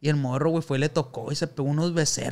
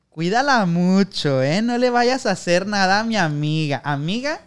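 friend's warning; 4 semitones higher, 6 dB louder, slower than usual. Retold or imitated. Gay friend's parting warning.

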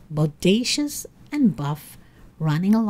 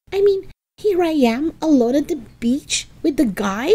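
high-pitched exasperated lament; wailing self-reproach; 7 semitones higher than usual. A narrator's reading. Helga regretting her insults to Arnold, high wailing lament. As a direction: scold yourself in a high, anguished voice. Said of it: "she wailed".

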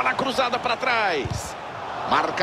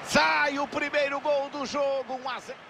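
goal call; 5 semitones higher, 4 dB quieter than usual. Acted. Goal scored, commentator shouts.

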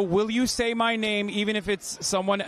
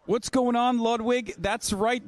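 higher, booming host announcer voice; 4 semitones higher, slower than usual. Acted. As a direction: hype it like an event announcer. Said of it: "This is my announcer voice".

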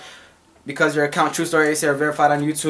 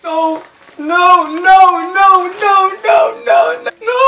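higher and louder with each no; rising dismay; 7 dB louder, much slower than usual. Real, not acted. Mom dismayed to find the crushed Buenos. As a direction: climb into a wailing shout.

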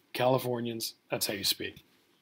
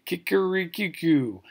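higher, louder singsong crow; Indonesian rooster crow; 5 semitones higher, 5 dB louder than usual. Retold or imitated. Lecturer showing how Indonesian roosters sound, crowing.

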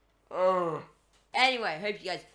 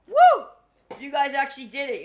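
laughing cheer; 7 semitones higher, 13 dB louder than usual. Real, not acted. Cheering a solved case.

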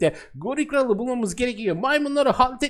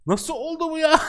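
surprised; 7 semitones higher than usual. Real, not acted. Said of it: "arka planda bir şeye bakıyordum".

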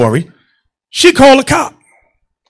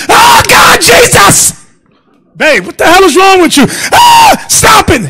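much higher, loud hammed-up screaming; fake hysterical wife; 13 semitones higher, 4 dB louder than usual. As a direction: play a wife faking an attack so the neighbours hear. Wife faking attack on floor.

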